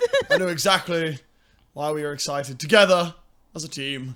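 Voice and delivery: loud, laughing, fake-confident tone.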